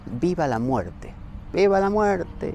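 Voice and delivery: mild mock shout. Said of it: "gritaron así".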